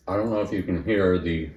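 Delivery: talking through a mouthful of pancake; words round a bite of food; mouth full. Real, not acted. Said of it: "I'm talking with food in my mouth".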